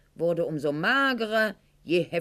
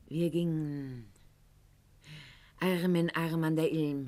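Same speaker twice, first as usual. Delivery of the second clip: tender reminiscence; 2 semitones lower, 4 dB quieter than usual. Acted. Tender memory of love with Goethe.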